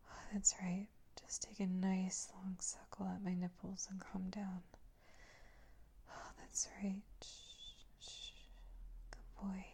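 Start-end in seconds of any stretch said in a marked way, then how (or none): 6.1-9.6 very soft, breathy shushing; barely-there lulling murmur; soothing hush. Acted. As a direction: hush them gently towards sleep. Hushing the listener to sleep.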